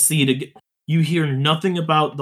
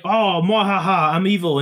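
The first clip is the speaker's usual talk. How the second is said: sneering panto villain. Retold or imitated. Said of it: "he's just like".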